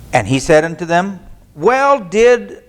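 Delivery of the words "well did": Reagan-ish well. Shown as a demonstration. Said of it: "sounds like Ronald Reagan".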